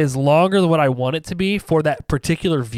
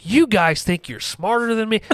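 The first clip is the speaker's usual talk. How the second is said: higher-pitched mock indignation; retold attack; 6 semitones higher than usual. Retelling attacking friends over the movie, mock indignant. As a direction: challenge them, playfully affronted. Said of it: "I, like, start attacking them".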